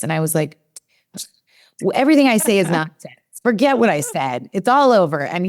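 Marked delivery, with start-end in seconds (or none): 1.8-5.2 mock despair. Retelling her own despairing reply.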